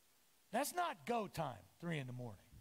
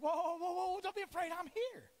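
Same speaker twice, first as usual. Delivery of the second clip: calming whoa; 8 semitones higher than usual. Retold or imitated. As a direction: settle them down like spooked horses. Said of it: "He's like".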